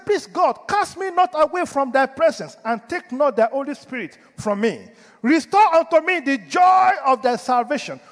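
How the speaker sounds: urgent imploring prayer; begging prayer. Acted. Voices David begging God.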